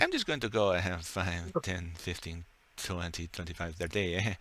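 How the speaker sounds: put-on low, hushed French-accented counting; french chef. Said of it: "And he's like".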